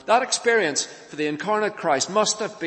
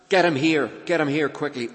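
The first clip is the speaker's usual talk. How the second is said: urgent; 3 semitones higher, 4 dB louder than usual. Shown as a demonstration. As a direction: urge them to hurry, repeating it insistently.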